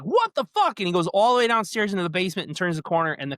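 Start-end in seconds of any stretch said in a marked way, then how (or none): 0.0-0.8 much higher, louder disbelief; jolted retold shock. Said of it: "And he's like".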